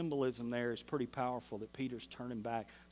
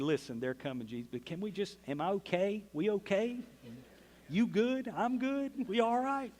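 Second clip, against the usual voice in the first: climbing higher, pleading for reassurance; anxious Peter; 6 semitones higher than usual. Retold or imitated. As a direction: nervously check if we are okay. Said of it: "sit down with Jesus and say".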